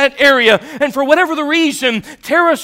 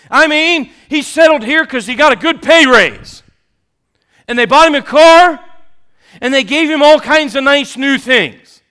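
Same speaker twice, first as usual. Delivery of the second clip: mock-enthusiastic, louder sarcasm; sarcastic; 3 dB louder than usual. Shown as a demonstration. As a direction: say it with heavy sarcasm. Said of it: "That's sarcasm".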